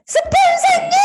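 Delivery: high squealing call of joy; delighted shout. Retold or imitated. 스폰서를 반기며 높이 외치는 환호. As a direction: greet your sponsor like a long-lost friend. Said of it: "그러면서 와가지고".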